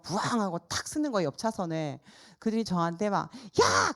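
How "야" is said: sharp loud yell, much higher; angry yell. Retold or imitated. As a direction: yell at her like an enraged driver. Retold angry driver yelling. (화난 운전자의 고함)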